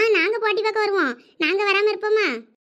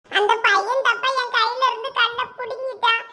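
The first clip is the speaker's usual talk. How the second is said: put-on higher-pitched little kid's grievance; complaining child; 6 semitones higher than usual. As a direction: plead your case to dad in a small, high voice. Upset child complains to parent. (அப்பாவிடம் முறையிடும் குழந்தைக் குரல்)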